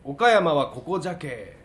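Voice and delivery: spoken in Okayama dialect. Acted. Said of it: "岡山弁でね".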